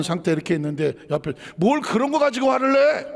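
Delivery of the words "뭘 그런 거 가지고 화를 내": high-pitched, indignant acted retort; dismissive scolding. Bystander belittling an angry person's feelings, scolding. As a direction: scold as if stoking their anger, voice raised in pitch. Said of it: "그러면 불을 지르는 거예요".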